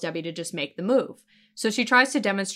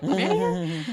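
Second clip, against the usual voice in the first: high mock-girlish pipe-up; innocent girl's question; 7 semitones higher than usual. Imitating Debbie looking for Mandy, high innocent question. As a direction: ask it high, playing clueless.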